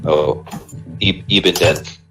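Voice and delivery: put-on a touch of a southern good old boy asking around; southern accent. A traveler questioning the prisoner about his route, light southern accent. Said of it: "he's straight up gone southern".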